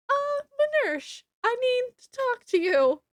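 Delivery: hammed-up insistent girl pulling him aside; high, pressing, playful imitation; urgent insistence. Lottie urgently pulls him aside.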